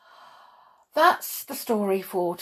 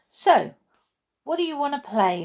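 put-on higher, quick childlike voice; bouncy little fawn; young fawn; 8 semitones higher, 5 dB louder than usual. Bambi asks Thumper to play, higher childlike.

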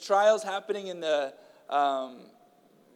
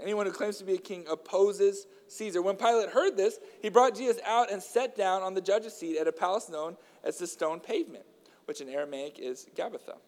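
earnest, raised reading voice; scripture reading; 3 semitones higher than usual. A narrator's reading. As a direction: read the Gospel aloud to the church.

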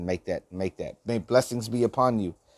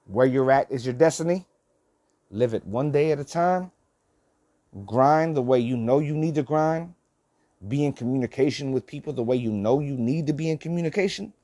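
urgent push, pitched up; with urgency; 4 semitones higher than usual. Real, not acted. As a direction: drive it home with urgency. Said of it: "with urgency".

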